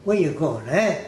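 lightly voiced Italian-American street kid; a hint of a New York Italian kid calling out; mild Italian-American accent, tossed off. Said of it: "The Italian kids spoke like this".

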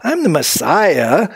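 lightly acted, emphatic self-assertion; mock setting the followers straight; imagined indignant correction. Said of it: "Jesus probably thinking".

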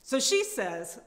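loud, fed-up setup line; angry storyteller beat; ranting lead-in. Acted. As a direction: push the story on, still heated. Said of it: "reading Sharon's tirade".

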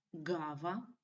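"гава" with the first syllable stressed. Shown as a demonstration. Teacher gives examples of first-syllable stress, "гава" stressed at the start. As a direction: lean on the opening "га" of "гава". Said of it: "з наголосом на першому складі".

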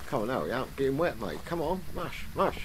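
high, loud urging to hurry; excited urging. Real, not acted. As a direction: spur it on like a sled driver. Urging character through water.

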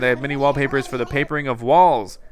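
a hint of a travelling carpet seller; lightly hammed-up foreign merchant pitch; lightly voiced Sahara. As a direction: grandly announce yourself, then patter like a trader.

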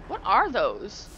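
asking, creeped out and slow; disgusted slow question. Real, not acted. Seeing strange aliens, a loud creeped-out question.

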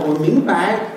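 put-on foreign-accented Mandarin, 明 and 白 both rising; mock a foreigner giving 白 a full rising tone; foreigner's Chinese accent. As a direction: foreign lilt on 明白, no neutral tone. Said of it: "是不是扬腔哦".

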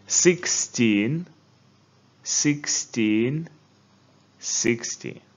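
fourTEEN rising, FORty falling; stress contrast. Shown as a demonstration. Teacher drills number stress with class. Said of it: "Now let's continue".

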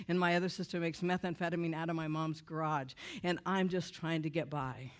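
low-key, matter-of-fact reply; deadpan confession. Retold or imitated. Woman answering her dance partner, deadpan confession. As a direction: lay it out deadpan.

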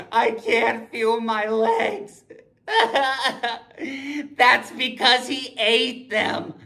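whimpering victim. Acted. Victim voice, comic horror.

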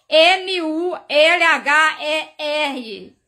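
slow, emphatic letter-by-letter spelling. Real, not acted. Soletra a palavra para corrigir. (soletrando devagar, com ênfase)

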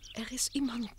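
fearful whisper. Acted. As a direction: breathe it out secretly. Dolly reveals a hidden danger.

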